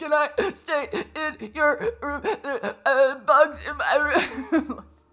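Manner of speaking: very high-pitched, very loud sobbing, crying voice. Recalling begging a girl at her door for a place to stay, mock-sobbing plea. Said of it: "I'm sobbing, crying".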